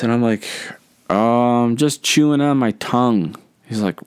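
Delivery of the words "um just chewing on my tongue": mock-nervous kid's excuse, pitched up. Ten-year-old fibs to his teacher about candy, mock nervous. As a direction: play a hesitant little fib in a higher voice. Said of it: "I'm all nervous".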